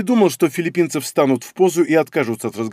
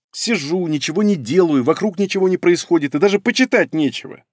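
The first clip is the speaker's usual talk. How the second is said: a touch of whine, higher; whining; 4 semitones higher than usual. Acted. Bored fox girl listing complaints in a mild whine. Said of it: "начала она ныть".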